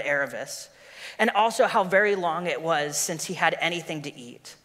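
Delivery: story reading. A narrator's reading. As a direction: read the story to the congregation.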